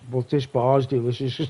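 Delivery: chewing while talking; mouth full. Real, not acted. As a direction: speak round a bite of food. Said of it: "if you can hear me sound a bit chewing".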